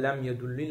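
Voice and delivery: yedulli with a final i; ending read as yedulli. Shown as a demonstration. Teacher giving the second reading, yedulli with final i. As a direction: finish yedulli on a short i. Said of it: "üç şekilde de okunabilir".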